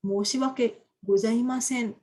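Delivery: slow, careful formal apology; a student demonstrates a slow, careful keigo apology to a superior; polite keigo apology. Shown as a demonstration. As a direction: apologise slowly and formally, as to a boss. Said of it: "kalau misalnya kita belajar keigo".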